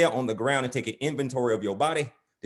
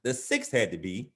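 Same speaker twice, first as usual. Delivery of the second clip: measured, rhythmic poetry recital; spoken-word poem. Acted. Poet reciting his poem about life's fights, measured. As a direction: recite it in cadenced lines with pauses.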